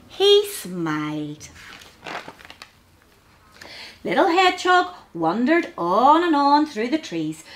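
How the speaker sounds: measured, lilting storybook reading; gentle picture-book storytelling; children's story narration. A narrator's reading.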